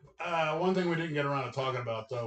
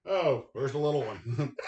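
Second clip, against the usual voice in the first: laughing; 4 semitones higher, 3 dB louder than usual. Real, not acted. Laughing at the knocked-over model.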